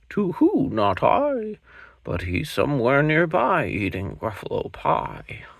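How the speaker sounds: a hooting owl teasing the cub. Acted. Owl answers.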